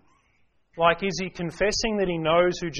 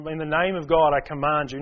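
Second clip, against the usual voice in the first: grand mock command; 4 dB louder than usual. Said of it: "didn't call on the authority of God".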